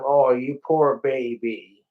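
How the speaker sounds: slow mock-sympathy; mock pity. Guitarist jeering at his own broken strings, mock pity. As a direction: draw out the fake pity.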